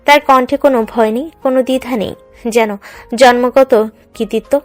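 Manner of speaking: plain reading voice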